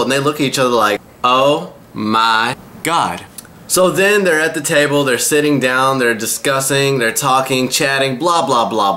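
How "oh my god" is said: slow, drawn-out shocked gasp of words; a dragged-out mock shock; stunned oh my god. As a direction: stretch it out in disbelief. Shocked realization, acted together.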